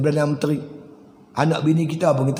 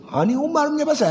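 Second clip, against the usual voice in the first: bitter widow; 10 semitones higher than usual. Acted. Widow blames Umar bitterly.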